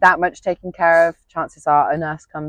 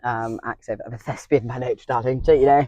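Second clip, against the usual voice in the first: theatrical thespian; 4 semitones lower than usual. Shown as a demonstration. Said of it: "a bit of a theatrical".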